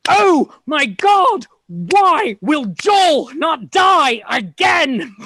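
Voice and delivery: shouting in mock despair; exasperated shout. Real, not acted. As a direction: yell it like you can't believe it.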